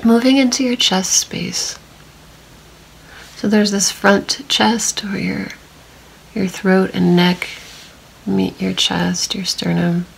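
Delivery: calm meditation voice with long silences; unhurried, even guiding, leaving long pauses to notice; guided body scan. Real, not acted. Meditation guide leading listeners through a body scan, calm and spacious.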